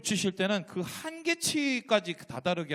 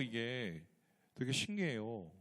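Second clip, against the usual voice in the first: 되게 신기해요 said again, much softer; a hushed echo of 되게 신기해요 in wonder; softer repeat; 5 semitones lower, 8 dB quieter, slower than usual. Shown as a demonstration. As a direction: let 되게 신기해요 fall away quietly.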